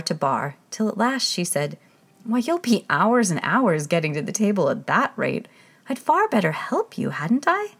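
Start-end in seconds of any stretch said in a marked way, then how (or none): 2.2-7.7 a hint of eager girl; lightly voiced Alice. Alice offering to help the King, lightly eager.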